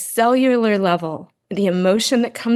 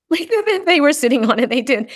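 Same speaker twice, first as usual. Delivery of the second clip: laughing; 7 semitones higher than usual. Real, not acted. Laughing at son's boulder empty chair.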